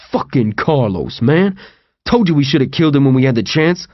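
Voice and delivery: a lightly voiced, winded man in a wheelchair, fast at the end; out-of-breath wheelchair guy. Wheelchair guy to TJ about Carlos, lightly voiced and winded. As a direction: puff it out like a tired guy who just rolled up. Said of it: "An out-of-breath wheelchair guy ... said".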